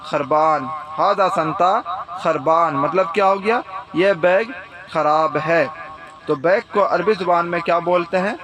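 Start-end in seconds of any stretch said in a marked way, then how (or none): 0.0-2.7 slow teaching demo. Shown as a demonstration. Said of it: "تو آپ پھر کیا بولیں گے عربی زبان میں؟".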